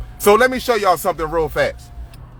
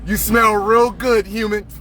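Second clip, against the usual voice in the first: hungry alien predator. Acted. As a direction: purr it like a beast sniffing its prey. Alien predator taunting humans.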